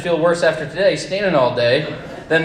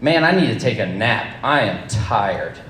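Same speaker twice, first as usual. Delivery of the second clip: imitating tiredness; 4 semitones lower than usual. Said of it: "It's more like".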